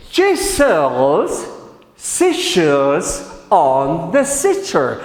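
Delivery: very slow, broken into separate chunks; tongue-twister model. Shown as a demonstration. Teacher asking learners to repeat, slow chunked model. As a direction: pause between chunks for learners to echo.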